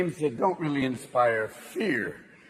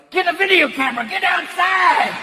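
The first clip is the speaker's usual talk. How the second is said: redneck filming tornado; 10 semitones higher than usual. Retold or imitated. Redneck shouting at Bobby during a tornado. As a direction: yell at Bobby to keep filming. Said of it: "Two fuckers are like".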